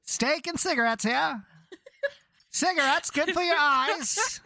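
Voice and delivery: put-on old-timey vendor. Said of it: "vendor calls".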